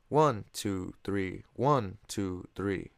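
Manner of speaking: counted waltz with "One" accented; stress on beat one. Shown as a demonstration. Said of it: "beat one is emphasized".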